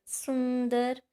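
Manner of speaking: सुंदर with the nasal buzzing in the nose; teacher letting the class feel nasal vibration; nasal demo. Shown as a demonstration. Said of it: "कहाँ हो रही है vibration".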